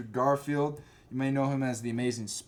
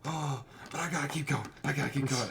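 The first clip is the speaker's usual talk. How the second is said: put-on Southern boy; 3 semitones higher than usual. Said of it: "he's, like, a Southern boy".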